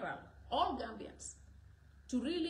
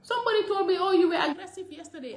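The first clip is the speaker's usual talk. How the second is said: louder, worked up; indignant, voice raised; loud retelling; 4 semitones higher, 12 dB louder than usual. Real, not acted. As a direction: recount the jab with heat.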